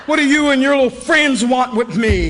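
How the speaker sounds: a half-shouted mock accusation; a tripping customer yelling back; paranoid yell. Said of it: "I said".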